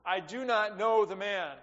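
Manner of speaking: mild mock oath of denial; sworn denial. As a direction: swear it off forcefully. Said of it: "He denied it again with an oath".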